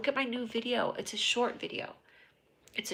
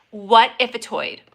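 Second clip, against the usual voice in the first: slow breathy whisper; 10 dB louder than usual. Real, not acted. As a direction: whisper it like a secret. Conspiratorial aside.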